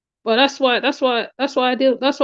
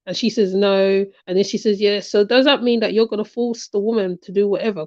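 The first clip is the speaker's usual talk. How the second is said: offhand, careless mock voice of the man; lightly mocked casual talk. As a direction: imitate him breezily brushing it off. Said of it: "you talking like that, all casual".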